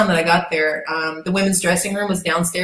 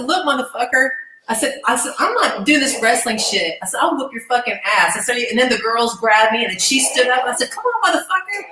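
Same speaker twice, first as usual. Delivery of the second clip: higher-pitched, mildly heated challenge; retold fighting talk; 4 semitones higher than usual. New wrestler challenging her rude rival, heated. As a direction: act out squaring up for a fight. Retold confrontation in dressing room.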